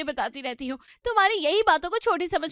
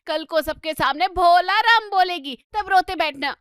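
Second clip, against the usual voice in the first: indignant scolding, building louder; a nagging wife getting worked up; exasperated mother scolds the husband; 4 dB louder than usual. Acted. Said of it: "माधुरी बड़बड़ाती हुई".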